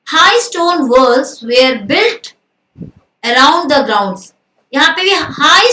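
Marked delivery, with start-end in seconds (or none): 0.1-4.3 very slow reading of the sentence; slow dictation. Shown as a demonstration. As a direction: read it out word by word. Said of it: "teacher reading example slowly".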